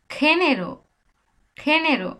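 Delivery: খেনেরো with a খ start for the letter G; Spanish pronunciation. Shown as a demonstration. Teacher demonstrating Spanish G as খ. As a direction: Genero said with খ. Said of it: "খয়ের মতোই হয়".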